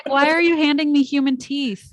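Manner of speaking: high, baffled question; incredulous. Retold or imitated. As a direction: pitch up in mock disbelief. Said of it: "I was like".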